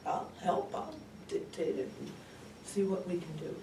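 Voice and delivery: soft, high-pitched agreeable reply; daughter humoring mother. Acted. Daughter agreeing to help her mother write, softly indulgent. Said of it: "I said".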